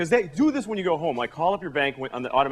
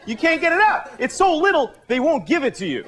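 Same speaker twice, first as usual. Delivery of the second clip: indignant; 9 semitones higher than usual. Real, not acted. Indignant complaint.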